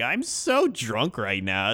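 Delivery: slow, overacted drunk voice; fake drunk. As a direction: ham up being drunk. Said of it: "pretending to be drunk".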